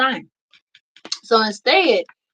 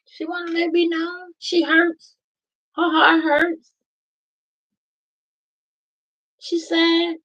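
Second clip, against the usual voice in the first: voicing the inner child; 8 semitones higher than usual. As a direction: speak as the little child inside who hurts. Speaks for the hurting inner child.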